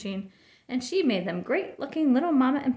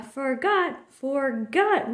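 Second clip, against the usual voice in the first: exasperated repeated bellow; Papa throwing up his hands; roaring; 3 semitones higher, much slower than usual. A narrator's reading. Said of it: "roared Papa".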